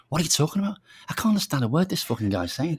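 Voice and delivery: mock the baffled auditioners, laughing; mocking laughing quote. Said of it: "they kept saying".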